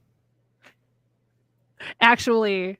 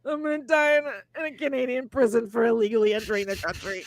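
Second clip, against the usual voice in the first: high wail easing toward normal; mock tearful panic; 4 semitones higher than usual. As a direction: wail it like a hammed-up sobbing breakdown. Retells own panic at the border.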